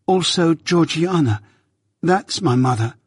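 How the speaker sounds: lightly voiced shy child; a hint of a small boy; timid boy. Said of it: "I timidly explained".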